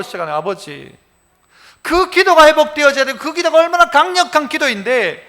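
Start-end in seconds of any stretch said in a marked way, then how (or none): 0.4-1.0 whispered prayer call. Shown as a demonstration. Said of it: "아버지라고".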